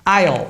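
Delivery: aisle said like "ail", the s silent; English pronunciation. Shown as a demonstration. Teacher shows how aisle is really said. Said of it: "a pronúncia é aisle".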